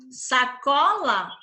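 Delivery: "sacola" and "retornável" drawn out slowly, syllable by syllable; a teacher lingering over "retornável" for the class; slow, careful teaching read. Shown as a demonstration. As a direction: read the two words slowly so the class hears each syllable. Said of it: "uma tem acento e a outra não".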